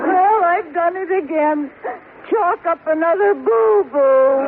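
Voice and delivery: laughing at herself through hurt; a sheepish, rueful chuckle. Acted. Wife laughs at her own failure.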